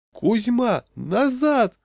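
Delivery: high, loud alarmed call; shout. A narrator's reading. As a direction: order the child back at once. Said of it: "закричала жена". (громкий высокий крик)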